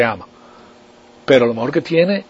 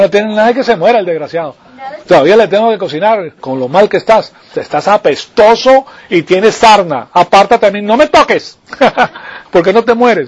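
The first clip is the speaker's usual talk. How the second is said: fed-up wife; 3 semitones higher than usual. Retold or imitated. Wife voiced scolding sick husband.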